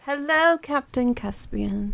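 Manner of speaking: loud, high mock greeting, slow on the name; playful shout. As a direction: bellow the greeting like a herald. Streamer greets viewer with mock shout.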